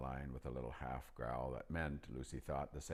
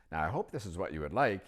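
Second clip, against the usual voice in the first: put-on old magician; 2 semitones higher, 7 dB louder, faster than usual. A narrator's reading. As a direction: pitch up into the chatty old magician. Narrator voicing old magician.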